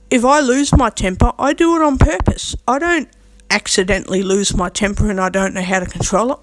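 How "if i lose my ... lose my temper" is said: defiant insistence. Real, not acted. Speaker answers critics about their temper, defiant insistence. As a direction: own it defiantly, pitch climbing.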